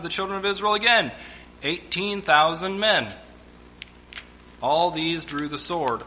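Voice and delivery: measured Bible reading voice; preacher reading scripture to the church. Acted. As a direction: read the passage with weight.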